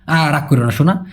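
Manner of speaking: soothing coax. Acted. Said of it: "কেউ রাগ করলো তাকে বুঝানো".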